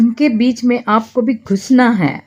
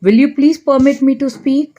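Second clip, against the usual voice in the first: very slow, every word laid out clearly; slow model phrase; 5 semitones higher, much slower than usual. Shown as a demonstration. Teacher slowly models an English apology for Hindi learners. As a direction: say it slowly so learners can repeat it. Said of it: "ये भी कह सकते हैं".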